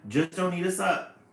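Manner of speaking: thinking to themselves. A narrator's reading. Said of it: "is what they think to themselves".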